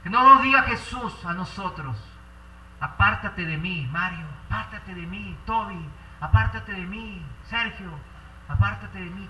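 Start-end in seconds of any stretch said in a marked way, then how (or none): 2.8-9.3 gentle sad dismissal. Acted. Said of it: "de esa manera".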